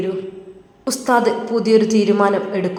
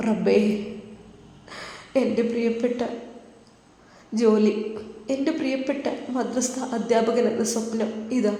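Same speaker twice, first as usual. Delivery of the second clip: anguished prayer; 2 semitones higher, 4 dB quieter than usual. Acted. Young teacher's heartbroken prayer.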